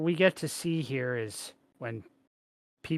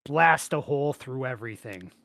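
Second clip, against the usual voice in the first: excited mock quote; 2 semitones higher, 6 dB louder than usual. Paraphrasing the show's design.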